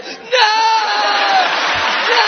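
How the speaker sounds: begging not to, half yelling; mock panicked schoolkid; panicked kid.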